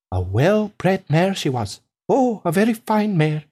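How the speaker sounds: slightly lilting farmer spinning a tall tale; a hint of a proud farmer; lightly voiced storytelling farmer. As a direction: tell it as a farmer, relishing each detail.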